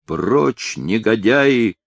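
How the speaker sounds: understated cry to drive them off; a touch of a shout at the scoundrels; mild shout. Acted. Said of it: "изо всех сил крикнул".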